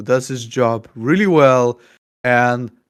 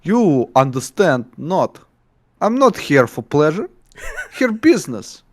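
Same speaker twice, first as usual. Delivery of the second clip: broken English in a mock Russian accent; Russian-style villain accent; 3 semitones higher than usual. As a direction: play the foreign madman villain with a heavy Russian-style accent. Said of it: "give him really broken English lines".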